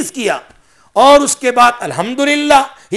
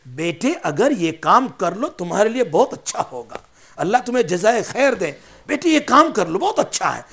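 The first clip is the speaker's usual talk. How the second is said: softer, coaxing tone to a son; gentle request; 4 semitones lower, 8 dB quieter than usual. Shown as a demonstration. Father kindly asking his son to do a task, gentle. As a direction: ask kindly, like a loving father. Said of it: "تو انداز یوں کہو".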